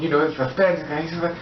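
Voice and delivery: ordinary delivery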